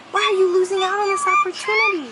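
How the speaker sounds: hammed-up crying whine, fast; mock wailing plea. Owner mock-crying at her dog for not picking a toy. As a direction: pretend to sob at the dog.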